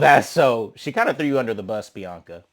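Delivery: normal talking voice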